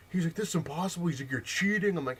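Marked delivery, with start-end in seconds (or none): 0.4-1.1 high-pitched imitation of a whining kid; mock near-crying. Losing kid protests to the winner, mock tearful. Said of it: "almost sounded like he was crying". 1.3-2.0 high, loud whiny accusation; mock near-crying. Losing kid accuses the winner, mock tearful whine. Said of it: "almost sounded like he was crying".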